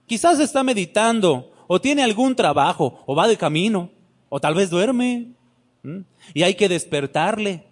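mocking taunt. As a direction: taunt them as a sneering prophet. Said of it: "Elías se burlaba de ellos".

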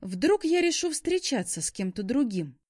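high, loud angry retort; spiteful cry. A narrator's reading. She finishes Shaun's sentence, spitefully crying out. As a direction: throw his words back angrily. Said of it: "Злобно выкрикнула я".

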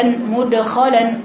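slow مدخلا with the د released without any damma; correct qalqala. Shown as a demonstration. Teacher models the right reading for a student. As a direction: lips spread back, مدخلا with a pure bounce on د. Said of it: "لازم ترجعي شفايفك".

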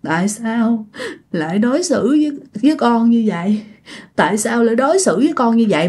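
lightly imitated ghostly lament; mild mock weeping plea; tearful moaning. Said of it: "Vừa khóc vừa rên".

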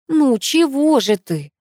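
slow, lost for words; a grandmother caught off guard, asking slowly; bewildered. A narrator's reading. Grandmother bewildered by her crying granddaughter, slow and at a loss. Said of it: "растерялась бабушка".

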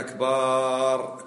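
كبار sung slowly as kbar; كبار slowly stretched, not أكبر; drawn-out kbar. Shown as a demonstration. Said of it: "كبار غير أكبر".

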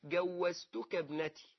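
slow جوزتك, hard g first and z after; swapped-letter form. Shown as a demonstration. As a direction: show جوزتك with g and z swapped from zawwagtuk. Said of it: "ما قالوش زوجتك". (نطق مصحّف بطيء لكلمة جوزتك)

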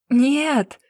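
sharp high loud no; scream. Acted. Girl screaming at the investigator's words, loud shout. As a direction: scream it out, waking from a trance. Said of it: "закричала девушка".

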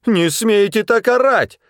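high, loud indignant shout; woman shouting back. A narrator's reading. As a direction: yell back at him, offended. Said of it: "тоже закричала женщина".

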